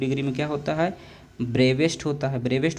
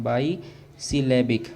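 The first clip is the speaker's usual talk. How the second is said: slow; much slower than usual. Shown as a demonstration. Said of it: "बाईसिलेबिक का मतलब होता है".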